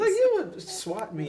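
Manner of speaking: high-pitched laughing tease; amused teasing, voice lifted by laughter. Real, not acted. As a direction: laugh through it, slow.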